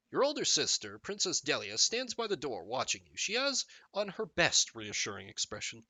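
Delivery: measured storybook narrator; expressive read-aloud narration; game story narration. Acted.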